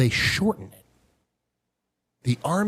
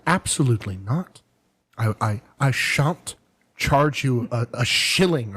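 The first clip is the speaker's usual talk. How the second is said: put-on light British accent; slower than usual. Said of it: "She's very British".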